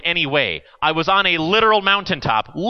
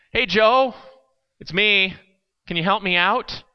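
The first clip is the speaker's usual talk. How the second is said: calling to a friend; 6 semitones higher than usual. Acted. Man calls to friend.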